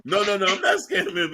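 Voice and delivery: laughing through the denial. Real, not acted. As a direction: deny it while chuckling. Denies scamming, laughing.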